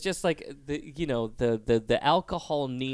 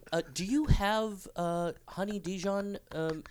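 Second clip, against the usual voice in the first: put-on drunk customer; 4 semitones higher, 4 dB quieter than usual. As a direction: fumble the order like a drunk. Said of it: "they'll just be like".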